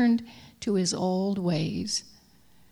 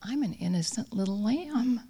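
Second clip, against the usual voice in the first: quiet bleat; 3 semitones higher than usual. Acted. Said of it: "he quietly bleated".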